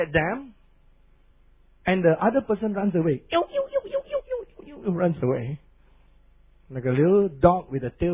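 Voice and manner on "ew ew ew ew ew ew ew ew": very high whining yelps; very high yelping dog whimper. Retold or imitated. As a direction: whimper like a scared little dog running off. Little dog running away whimpering.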